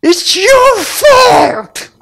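high, loud, very slow wail of blame; little daughter wailing at dad; child blaming daddy. Retold or imitated. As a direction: wail it like a small child blaming her father. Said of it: "때리면서 뭐라 그러냐, 영어로?".

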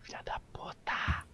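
unvoiced hushed whisper. Real, not acted. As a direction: whisper so the monster won't hear. Whispering while hiding.

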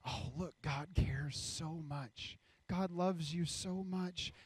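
soft, slow, touched wonder; drawn-out, hushed affection; tender admiration. Acted. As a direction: marvel softly and slowly. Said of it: "One saying".

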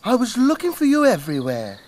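fast motherly hen voice; clucking hen. Acted. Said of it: "clucked Mother Hen".

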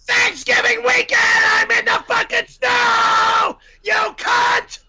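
angry yell; furious shout. Acted. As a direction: insist in rage. Furious insistence.

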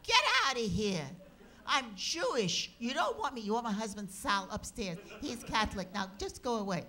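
high, loud, pleading to go away; half-comic alarm at a visitor; frightened shooing. Retold or imitated. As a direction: wave off a vision, rattled. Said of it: "And she said".

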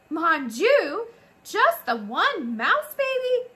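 high, loud, slow cry of dismay; dramatic French mother. A narrator's reading. French mother mouse learning only one baby lived, dramatic wail. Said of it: "She was a French mouse".

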